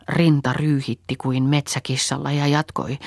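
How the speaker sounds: plain reading voice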